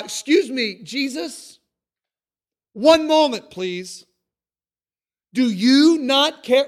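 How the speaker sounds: loud, high, indignant demand; exasperated outburst. Retold or imitated. Martha storming up to Jesus mid-teaching, exasperated loud outburst. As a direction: burst out at Jesus, fed up and accusing. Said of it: "she went up to him and just exploded".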